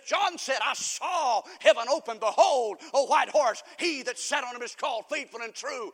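loud, emphatic scripture proclamation; ringing pulpit reading; forceful preaching. Acted. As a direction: proclaim the vision to the congregation with punched key words.

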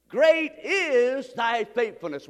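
slow and weighty, each word leaned on; slow unison reading. Shown as a demonstration. Pastor leads the congregation in saying it, slow and weighty. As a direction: lead the church in saying it slowly. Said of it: "Say that with me".

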